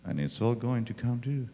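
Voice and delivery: preaching Jesus' words at full force. Acted. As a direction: thunder each "not your". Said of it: "Jesus says".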